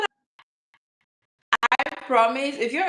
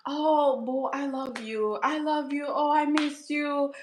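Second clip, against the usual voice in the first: imitated affectionate friend; 4 semitones higher than usual. Teasing her friend's usual I-love-you, imitated affectionate coo. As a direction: coo it lightly, slowing at the end. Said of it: "every time she always tell me".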